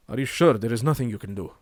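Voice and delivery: a hint of an Indian accent; slight Indian accent. Messenger asking the lord for help, slight Indian accent. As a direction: plead it with a light Indian accent. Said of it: "a little bit of an Indian accent".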